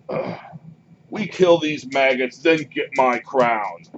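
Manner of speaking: hint of a disgusted, bossy giant; grumbling Ettin head. Game master as one Ettin head claiming the crown, mildly gruff insistence. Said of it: "one of the head sounds says".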